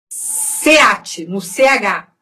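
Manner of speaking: ordinary delivery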